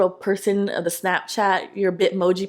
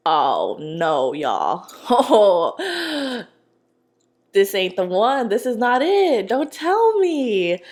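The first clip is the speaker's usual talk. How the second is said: loud, stunned reaction with a laugh; shocked disbelief; 4 dB louder, much slower than usual. Retold or imitated. Telling viewers her shock at finding the girlfriend, loud and stunned. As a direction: cry out like you just caught him.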